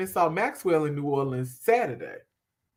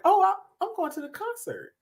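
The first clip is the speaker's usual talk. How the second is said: retold realisation; 13 semitones higher than usual. Retelling own sudden realisation.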